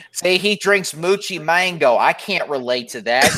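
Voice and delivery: Southern wrestling fan complaining; mock Southern accent. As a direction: grumble like a Southern fan, hammed up. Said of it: "making fun of us Southern people".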